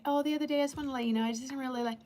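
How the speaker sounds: easing a friend into bad news; sugarcoated. Shown as a demonstration. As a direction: wrap it nicely so it doesn't sting. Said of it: "instead of saying".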